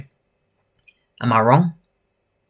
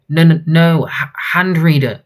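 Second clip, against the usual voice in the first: higher, louder stammered denial; panicked correction; 4 semitones higher, 4 dB louder than usual. Acted. Wounded hostage tells robber about the vault, panicked. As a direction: blurt it out under threat, acted. Hostage answering under threat.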